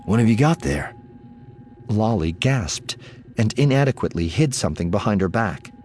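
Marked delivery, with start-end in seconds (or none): 0.0-0.9 put-on friendly, higher-pitched question to a child; genial. A narrator's reading. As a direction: ask genially, with a lift. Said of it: "he called genially".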